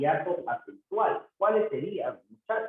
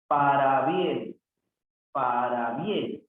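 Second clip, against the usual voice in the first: slow, measured dictation of both parts; sounded-out compound; 2 semitones lower, slower than usual. Shown as a demonstration. Teacher showing two joined words, slowly sounded out. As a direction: draw out each half of the compound.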